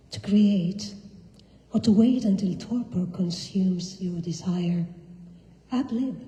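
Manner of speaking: slow, deliberate poem recital; poetry reading. Acted. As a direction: savour each image, slowly. Reads her poem in English.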